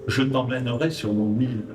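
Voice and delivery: récitation de poème. Acted. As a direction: lecture posée et rythmée d'un poème. Récite son poème avec musique. (poème déclamé doucement sur la musique)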